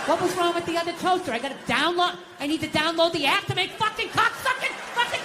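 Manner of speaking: frustrated swearing fit, acted out; exasperated ranting. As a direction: rant at a gadget, building into curses. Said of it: "don't scream like that".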